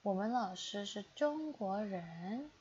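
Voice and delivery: slow, careful model reading of 我们老师是中国人. Shown as a demonstration. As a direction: read 我们老师是中国人 slowly, syllable by syllable, for learners. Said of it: "repeated at normal pace".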